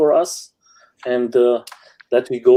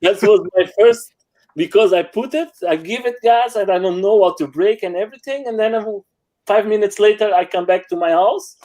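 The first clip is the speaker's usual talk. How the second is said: higher, animated, half laughing; excited retelling; 6 semitones higher than usual. Real, not acted. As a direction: tell the crash like it's still funny. Excitedly retelling first crash ride.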